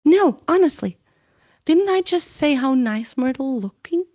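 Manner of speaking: high, loud desperate denial; anxious protest. Acted. Hermione denying to Myrtle, desperate. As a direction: insist too hard.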